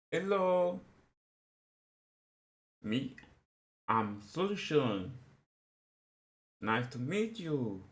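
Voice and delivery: slow, stiff robotic delivery; mechanical, halting robot greeting. Shown as a demonstration. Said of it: "it's like a robot".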